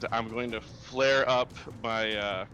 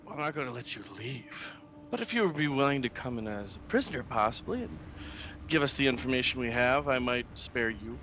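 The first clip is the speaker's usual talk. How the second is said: calm psychopath; 2 semitones higher, faster than usual. Acted. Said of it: "You have that serial killer voice in you".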